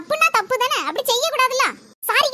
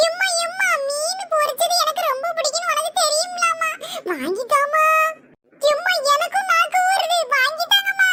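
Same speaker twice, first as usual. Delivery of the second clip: put-on pleading child; 3 semitones higher than usual. Child begging mother for fish.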